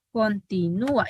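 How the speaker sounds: continúa with a stressed separate ú, con-ti-nú-a; hiatus pronunciation. Shown as a demonstration. Teacher demonstrating continúa to the class. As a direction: say continúa breaking the ú into its own syllable. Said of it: "Esta es la diferencia entre continua y continúa".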